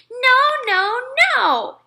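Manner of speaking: put-on high loud toddler holler. A narrator's reading. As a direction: yell no like a tantrum. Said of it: "he hollered".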